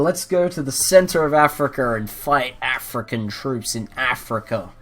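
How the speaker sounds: the Saudis justifying their war, loud and smug; playing the Saudis. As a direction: ham up a smug ruler explaining his war. Voicing the Saudis' reasoning.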